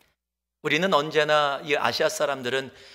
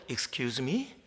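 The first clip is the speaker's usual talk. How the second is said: puzzled Excuse me; 5 semitones lower, 9 dB quieter, much slower than usual. Retold or imitated. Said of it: "전혀 이해하지 못하겠다라는 그런 표정으로".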